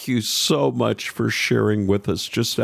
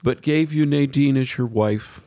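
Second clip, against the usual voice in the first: moved, slow and sincere; 5 semitones higher than usual. Real, not acted. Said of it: "you're gonna make me emotional here".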